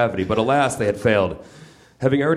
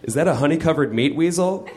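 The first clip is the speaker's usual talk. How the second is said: higher, innocent bear asking a question; naive Pooh; 6 semitones higher than usual. Acted. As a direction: ask it like a clueless toy bear. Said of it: "Pooh Bear asked naively".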